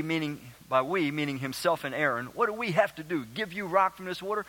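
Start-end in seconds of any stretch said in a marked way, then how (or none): 2.3-4.4 fed-up scolding. Acted. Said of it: "he blows his stack a little bit".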